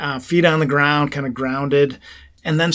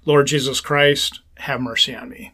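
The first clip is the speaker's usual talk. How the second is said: slow breath prayer. Shown as a demonstration. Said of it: "You could say".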